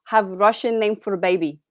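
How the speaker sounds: put-on halting Russian-accented movie line. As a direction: deliver it like a Russian film character. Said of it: "a Russian accent".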